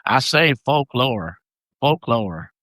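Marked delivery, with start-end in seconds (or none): 0.6-1.4 folklore said with a Southern accent. Real, not acted. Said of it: "It's my accent". 1.8-2.5 Southern accent. Real, not acted. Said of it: "It's my accent".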